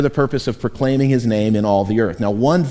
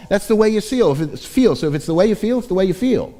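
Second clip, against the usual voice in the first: hip cool pastor; faster than usual. Retold or imitated. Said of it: "hip, cool pastors say".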